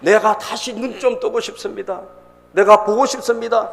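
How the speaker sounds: acted-out heartfelt entreaty; desperate pleading. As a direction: plead to be allowed to see. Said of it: "간절하게 예수님에게 막 쫓아와서".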